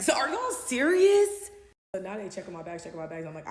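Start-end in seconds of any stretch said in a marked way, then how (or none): 0.0-1.5 high, loud, slow laughing question; real laughing incredulity; laughing disbelief. Real, not acted.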